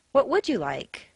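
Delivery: "would" lifted high, then falling away; stress on WOULD. Shown as a demonstration. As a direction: probe for specifics by punching "would". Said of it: "determine his specific desires".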